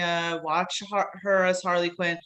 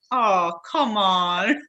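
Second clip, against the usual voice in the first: mock disbelief; 3 dB louder, much slower than usual. Retold disbelief at actor's real accent.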